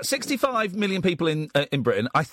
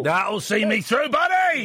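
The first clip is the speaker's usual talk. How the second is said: cheerful exclamation; 3 semitones higher, slower than usual. Real, not acted. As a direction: rise into a big cheerful shout. Host echoes caller with cheer.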